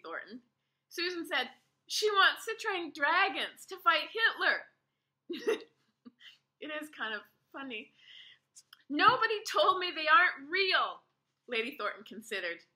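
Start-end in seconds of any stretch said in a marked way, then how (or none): 1.9-7.9 laughing. A narrator's reading. 8.9-11.0 higher, louder protest; indignant. A narrator's reading. Ada indignant and upset.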